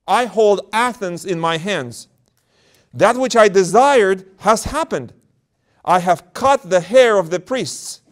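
slow, high menacing demon. Acted. Demon boasting to the elder, slow and menacing. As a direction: gloat slowly like a demon. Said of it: "the demon said".

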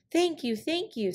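high, gushing coyote thanks; trickster tale voices. Acted. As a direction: squeal out grateful thanks. Coyote thanking the crow eagerly.

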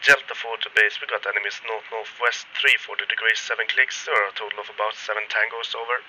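military radio transmission. Shown as a demonstration. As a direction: call it in over a field radio. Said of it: "really quick radio effect".

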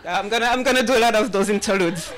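talking through a laugh; amused at herself. Real, not acted. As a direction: giggle the words out. Joking about her nervous laughs.

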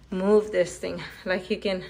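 panting between words after tugging; breathless from pulling the mat; out of breath. Real, not acted. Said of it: "I'm already out of breath".

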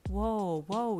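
calm them with a lifted, gentle voice; soft. A narrator's reading. Hawk calms a crying listener, mildly soft. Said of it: "he said softly".

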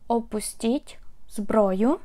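Опустіть зброю said slowly, every syllable spelled out for learners; slow it down so students can copy Опустіть зброю; careful, slowed-down model of Опустіть зброю; slow, clear teaching repeat. Shown as a demonstration. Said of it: "Or you can just say".

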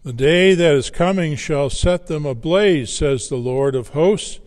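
loud, measured reading from the pulpit; formal, projected Bible reading; scripture reading. Acted. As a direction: proclaim the verse to a congregation. Reads scripture to congregation.

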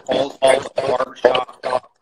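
loud, slow and excited. Real, not acted. Hyping up the barbershop scene.

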